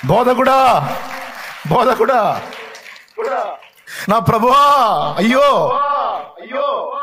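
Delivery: high, loud pleading cry of a grieving woman; Mary's anguished cry. Acted. Preacher voicing Mary crying out to Jesus, in a high, loud, anguished voice. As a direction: call out to the Teacher in anguish.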